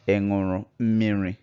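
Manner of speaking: "Ị ṅụrụ mmiri?" als vraag, met vraagtoon; Igbo question tone. Shown as a demonstration. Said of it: "Did you drink water?".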